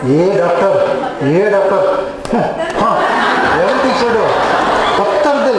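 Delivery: a hint of a weepy patient's appeal; pulsatilla patient. Pulsatilla patient appealing to the doctor, lightly acted complaint. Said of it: "what will the pulsatilla patient go out and tell".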